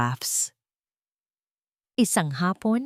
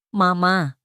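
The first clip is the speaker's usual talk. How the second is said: put-on child's shout; 4 dB louder than usual. A narrator's reading. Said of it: "sigaw ni Lucas".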